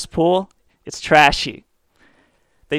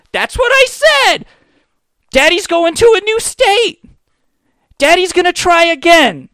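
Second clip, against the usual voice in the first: put-on very high, loud squeaky child; chirpy kid voice; 14 semitones higher, 6 dB louder than usual. Kid cheering daddy's departure, squeaky kid voice.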